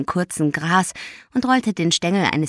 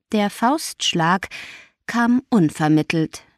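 plain reading voice

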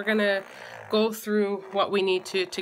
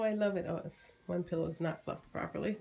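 normal talking voice

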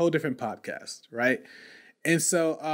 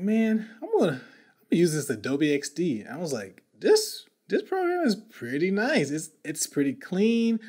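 excited; 3 semitones higher than usual. Retold or imitated. Excited self in retold story.

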